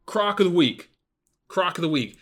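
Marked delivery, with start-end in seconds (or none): 0.1-0.9 loud announcer. Shown as a demonstration. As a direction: pick announced loud and high like a segment title. Announcing the pick segment.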